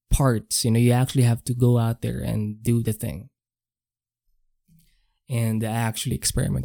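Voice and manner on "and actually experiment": while sipping a drink. Real, not acted. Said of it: "I'm just drinking some coffee here".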